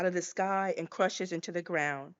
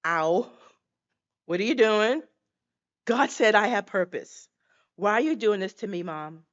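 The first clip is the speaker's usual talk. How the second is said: put-on louder childlike cry of pain and protest; a baby pleading with Mom to stop, louder; hurt baby voice; 4 dB louder than usual. Unborn baby begs Mom to stop hurting her, louder childlike protest. Baby cries out against coat hanger.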